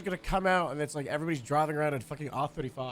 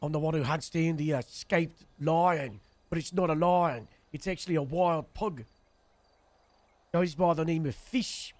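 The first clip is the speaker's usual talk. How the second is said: put-on slightly louder, lightly held South African accent; 4 dB louder than usual. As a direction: play a lion hunter in a shaky South African accent. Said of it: "The problem with my South African accent".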